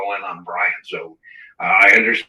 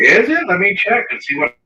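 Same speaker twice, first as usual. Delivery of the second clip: thin, tinny mic sound; tinny audio; 10 semitones higher, 3 dB louder than usual. Real, not acted. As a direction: voice through a cheap mic, cutting out. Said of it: "Your audio is very tinny".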